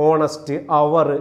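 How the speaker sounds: ഓണസ്റ്റ്, അവർ said slowly from the vowel, no H; slow demo of ഓണസ്റ്റ്, അവർ with H dropped; silent H. Shown as a demonstration. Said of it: "അവിടെ എച്ച് ഉച്ചരിക്കത്തില്ല". (ഓണസ്റ്റ്, അവർ: എച്ച് ഇല്ലാതെ സാവധാനം)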